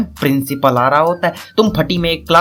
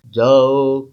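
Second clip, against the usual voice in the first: curt paternal order, slightly lowered; father's voice; 3 semitones lower, much slower than usual. Acted. Father urges son to go, lightly voiced paternal command. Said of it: "बाबूजी की तरफ".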